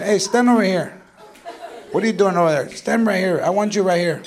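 quiet stern orders. Retold or imitated. Parent ordering child.

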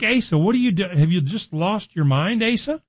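high, incredulous rebuke of the king; exasperated disbelief. Retold or imitated. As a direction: sound like you can't believe what he's doing. Preacher voicing exasperated onlooker.

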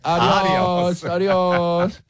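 high, drawn-out adios; playful farewell. Acted. Playfully demonstrating a habitual farewell.

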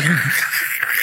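crackly rasping mic noise made by mouth; imitated microphone noise. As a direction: mimic a crackling cabin microphone. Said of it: "it sounded kinda like this".

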